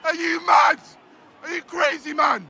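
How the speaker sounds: furious high yells at the ref; outraged fan yelling at the ref; angry shouting. Real, not acted. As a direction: bellow in disbelief at the referee. Furious at referee's decision.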